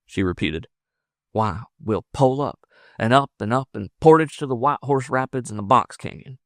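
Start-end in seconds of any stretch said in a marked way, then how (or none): 1.3-6.4 lightly voiced eager frontiersman, higher; eager lover. Lover mapping the escape for the woman, mildly eager. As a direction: lay out the route with growing zest.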